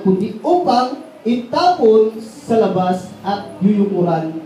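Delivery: slow, measured Bible reading; solemn, unhurried reading of Matthew; scripture reading. Acted. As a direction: read the verses deliberately to the congregation. Reads the scripture passage aloud.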